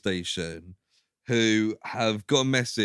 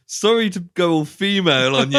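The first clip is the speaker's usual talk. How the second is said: lightly voiced sheepish heroine; a hint of a sorry little apology, pitched up; hammed-up coy apology, higher; mock apology; 6 semitones higher, 6 dB louder than usual. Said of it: "calms down and goes".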